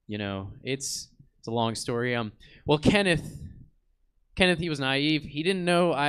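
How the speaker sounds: grave, solemn soldier's confession; serious tone. Acted. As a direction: tell it like a heavy war memory. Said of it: "he gets this, like, really serious tone".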